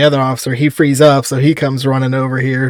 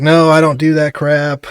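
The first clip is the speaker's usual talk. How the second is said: slow, lightly imitated drunk; slower than usual. Drunk man denying drugs to officer, slow and mildly acted. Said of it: "really drunk and saying it really slowly".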